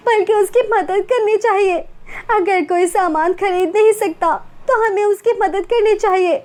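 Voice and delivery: tearful apology. Acted. Remorseful girl begging forgiveness.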